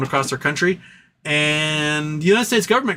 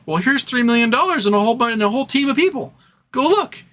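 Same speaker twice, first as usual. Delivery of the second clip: high, eager acted offer climbing higher; eager backer; 10 semitones higher than usual. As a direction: play a generous official, pitched way up. Acts eager Canadian government funding scientist.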